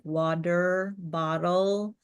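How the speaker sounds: "water bottle" with relaxed American D-like Ts; T softened to D. Shown as a demonstration. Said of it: "a D sounding".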